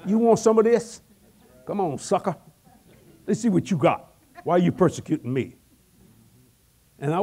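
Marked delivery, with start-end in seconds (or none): 0.0-5.5 mock tough guy. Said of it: "And I'll paraphrase it".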